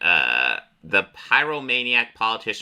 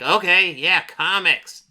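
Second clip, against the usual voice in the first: higher-pitched, pleased creature; monster voice; 8 semitones higher, slower than usual. Acted. Monster accepting the boy's comic books, eager creature voice. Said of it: "And he's like".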